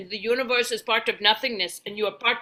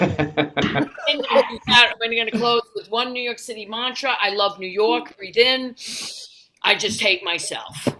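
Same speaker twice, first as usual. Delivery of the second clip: a hint of a brash New Yorker guiding breaths; slow "breathe in" lines, then blunt city asides; New York meditation guide. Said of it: "I need a New York guided meditation".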